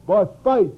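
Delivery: "faith" punched high and loud; underscored key word. Shown as a demonstration. Preacher underscoring Romans' cardinal word, stress on FAITH. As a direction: hit "faith" hard. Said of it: "Paul underscores every cardinal word".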